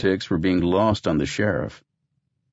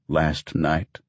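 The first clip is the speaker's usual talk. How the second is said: incredulous echo; 3 semitones lower than usual. Acted. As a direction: stress on Last, questioning disbelief. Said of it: "He came home last night".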